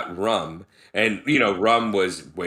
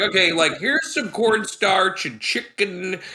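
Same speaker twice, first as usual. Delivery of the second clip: put-on hammy Jamaican accent, pitched up; bad Jamaican accent; 9 semitones higher than usual. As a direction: put on a cheesy Jamaican lilt. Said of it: "I'm talking like a Jamaican, like a bad Jamaican accent".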